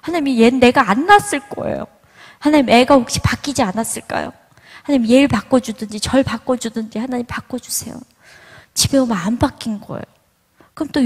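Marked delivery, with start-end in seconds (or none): 0.0-8.0 higher-pitched, exasperated mock prayer; pleading prayer. Mother praying to God about her impossible son, exasperated pleading. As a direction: re-enact begging God in complaint. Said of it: "무슨 기도를 했냐면".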